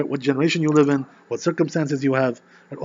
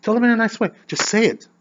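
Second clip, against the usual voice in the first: God gently scolding; 8 semitones higher, 6 dB louder than usual. Acted. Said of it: "he says".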